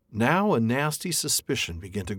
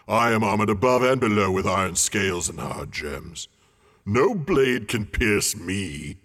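boasting dragon; 4 dB louder than usual. A narrator's reading. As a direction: roll out each boast, ending in a hush. Smaug continues.

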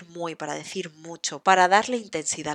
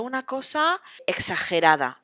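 una cosa exagerada with cosa stretched and louder; exaggerated stress; 4 semitones higher, 6 dB louder than usual. Shown as a demonstration. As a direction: lean hard on cosa, overdo it. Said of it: "se pronuncia exagerada".

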